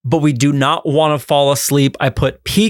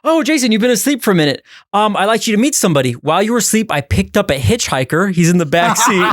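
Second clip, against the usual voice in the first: higher-pitched, breezy introduction; mock-casual announcing; 5 semitones higher than usual. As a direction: break odd news as if it were normal. Acted driver introducing a hitchhiker.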